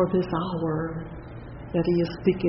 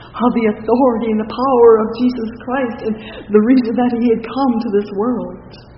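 louder, fast preacher's surge; fiery preaching; 4 semitones higher, 7 dB louder, faster than usual. Acted. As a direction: drive it home from the pulpit. Preaching rises to full force.

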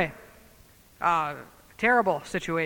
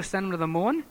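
normal talking voice

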